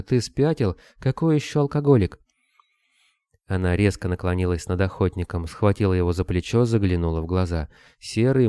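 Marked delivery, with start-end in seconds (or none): 0.0-2.2 high-pitched, incredulous questions; exclaiming. A narrator's reading. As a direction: raise the pitch in disbelief. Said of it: "воскликнула Ленка". (возмущённо, с изумлением)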